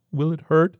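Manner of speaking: high, tense patient voice; nervous patient voice. Acted. Rawlings's strained patient voice.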